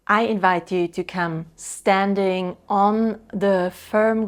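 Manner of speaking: deliberate, spacious instructions with lingering pauses; guided practice. Real, not acted. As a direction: lead them unhurriedly into a grounding exercise. Leads couples into guided practice.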